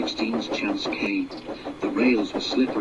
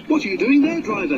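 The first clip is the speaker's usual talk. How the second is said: shouting foreman; 14 semitones higher, faster than usual. Acted. Foreman running up to the driver, high shout. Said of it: "he shouted".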